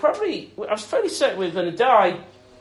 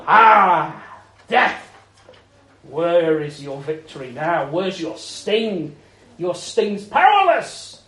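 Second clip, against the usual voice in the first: mocking death, drawn out slow; triumphant taunt; 2 semitones lower, slower than usual. Risen Jesus taunting death, slow triumphant mockery. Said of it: "and then saying".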